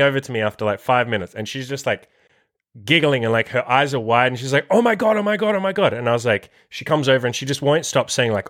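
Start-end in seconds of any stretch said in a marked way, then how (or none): 4.7-5.9 high-pitched giddy mock gushing; much higher, imitating an overexcited woman; excited. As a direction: imitate her breaking into excited repetition. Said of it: "She's, like, really excited".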